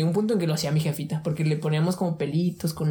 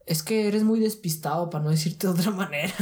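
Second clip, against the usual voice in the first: slow lecturing father. Retold or imitated. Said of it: "me decía".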